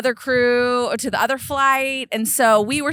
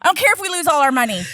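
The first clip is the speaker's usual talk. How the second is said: much higher, much louder furious yell; 7 semitones higher, 7 dB louder than usual. Retold or imitated. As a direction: blow up and shout it. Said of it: "'Cause I was yelling".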